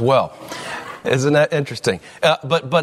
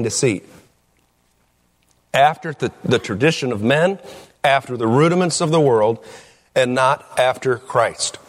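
scripture reading. Acted. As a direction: read the verses with weight. Reads scripture aloud.

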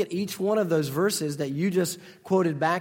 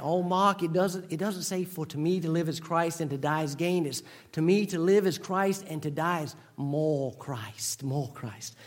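put-on an admittedly butchered Tidewater Virginia accent, softer; 4 dB quieter than usual. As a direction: imitate an old Tidewater Virginia lady gently correcting her pastor. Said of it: "I butchered her accent".

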